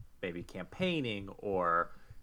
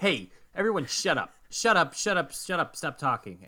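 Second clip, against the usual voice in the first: higher, louder hammed-up yell of shut up; mock yell; 6 semitones higher, 5 dB louder than usual. Friend retelling Warren telling everyone to shut up, mock yell. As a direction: bark at the whole bar, half in jest. Retold Warren yelling at bar.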